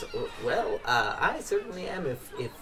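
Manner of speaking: shy Hecuba. Acted. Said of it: "And she goes".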